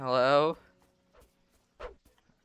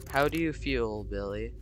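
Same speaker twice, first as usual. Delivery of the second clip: softer, lightly voiced caring priest; a hint of a gentle priest checking on the boy; lower voice; 4 dB quieter than usual. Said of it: "Why is my voice lower?".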